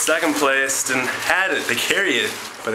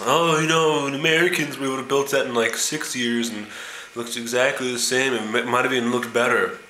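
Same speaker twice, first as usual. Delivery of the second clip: bragging American tourist; 2 semitones higher than usual. Retold or imitated. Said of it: "The American says".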